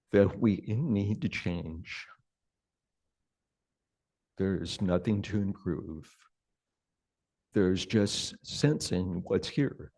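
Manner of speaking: unhurried meditation guidance with long pauses; guided meditation. Real, not acted. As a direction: gently guide them into sensing the body, leaving space between phrases.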